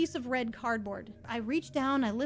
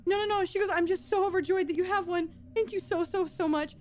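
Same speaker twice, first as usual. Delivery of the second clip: higher-pitched, mildly choked-up thanks; imitated tearful gratitude; 4 semitones higher than usual. Sobbing woman thanks the store clerk, imitated tearful gratitude. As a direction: lightly mimic an overjoyed, tearful customer. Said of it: "openly sobbing".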